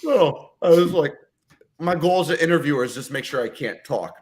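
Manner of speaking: talking through sour candy; eating sour candy. Real, not acted. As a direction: mouth full of sour candy. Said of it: "foaming at the mouth".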